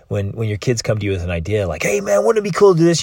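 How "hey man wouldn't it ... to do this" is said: put-on high, loud and fast, like an eager kid; excited kid. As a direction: blurt it out like a thrilled child with a big idea. Kid pitching a fun idea.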